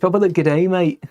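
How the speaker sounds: Australian twang on g'day and mate; Australian accent. Retold or imitated. Streamer repeats his Aussie line for chat, mock Australian accent. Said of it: "attempt at Australian".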